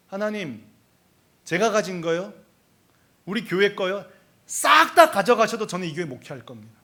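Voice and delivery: measured declaration, swelling on the final sentence; retold bold faith. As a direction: build to a firm, mildly bold vow. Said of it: "얼마나 담대함이 생기는지 몰라요".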